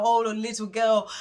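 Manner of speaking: a touch of lighthearted excitement; playful excitement. Retold or imitated. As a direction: quote it with a bit of play. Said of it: "say it in a playful way".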